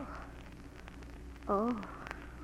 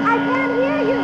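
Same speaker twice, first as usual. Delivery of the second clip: shouting over noise; 6 semitones higher, faster than usual. Acted. Shouting over loud vacuum.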